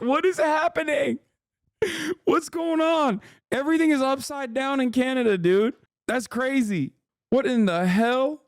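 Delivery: high, half-laughing disbelief; incredulous rant. Real, not acted. Streamer ranting to viewers in high amused disbelief. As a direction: rant in amazed squeals.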